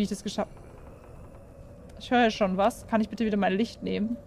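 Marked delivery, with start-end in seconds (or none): 0.0-2.0 slow whispered trail-off; whispered aside. Real, not acted. Gamer marvelling at own escape, slow whisper. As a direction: let it fade to a whisper.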